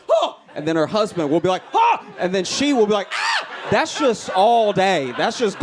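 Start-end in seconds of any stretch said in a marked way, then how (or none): 0.1-0.3 high, sudden yelped gasp; short mock shriek; dog's startled scream. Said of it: "the dog will be like". 1.7-2.0 loud, high yelped "huh"; short mock scream in reaction; husband's startled scream. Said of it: "this domino effect of screams". 3.1-3.5 very high, short shriek; piercing mock "ah"; wife's startled scream. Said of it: "this domino effect of screams".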